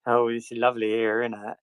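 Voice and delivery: broad West Country lilt; West Country accent. Shown as a demonstration. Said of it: "a proper West Country accent".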